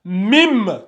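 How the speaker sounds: "Mim" ending on a held m; qalb pronunciation. Shown as a demonstration. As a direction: hum the final m of "Mim". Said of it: "ça se lit comme ça". (« Mim » avec le m final tenu)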